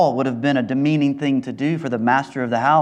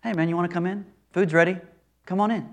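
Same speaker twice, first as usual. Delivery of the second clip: breezy, offhand and much softer; casual invite; 6 dB quieter, faster than usual. Retold or imitated. Mocking a half-hearted call to come inside, casual and soft. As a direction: toss off a lazy invitation. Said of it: "So this isn't like".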